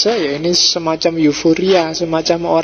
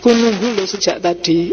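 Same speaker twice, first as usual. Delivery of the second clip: mild, friendly "I've been waiting"; demonstrating a kindly read message; pleasant reading; 2 semitones higher than usual. Shown as a demonstration. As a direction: say it nicely, without reproach. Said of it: "Itu kan bisa enak".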